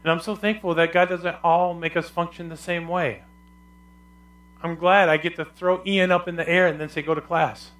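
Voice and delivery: normal talking voice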